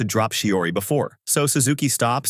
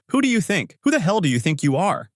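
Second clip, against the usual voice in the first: angry outburst; 7 semitones higher than usual. A narrator's reading. Suzuki fuming at Aizawa as he walks away, furious. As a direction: pitch jumps way up, furious.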